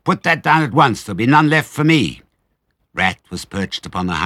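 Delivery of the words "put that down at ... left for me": high, loud, indignant demand; squealing, greedy outrage; shrieking rat. A narrator's reading. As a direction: screech at them to stop. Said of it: "shrieked Rat".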